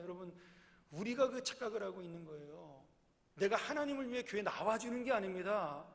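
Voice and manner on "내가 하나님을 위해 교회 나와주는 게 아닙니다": ordinary delivery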